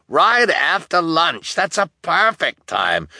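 high, loud agreement; eager crowd member. A narrator's reading. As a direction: call out keenly from the crowd.

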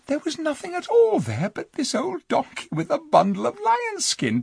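a hint of an eager girl telling her adventure; lightly voiced girl. Jill telling the king about the stable, lightly voiced eager girl.

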